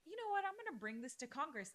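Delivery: high, bright mock resolve on the first words; playing a listener fired up to act; imagined eager listener. An imagined Canadian listener vowing to act, high mock resolve. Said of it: "and is like".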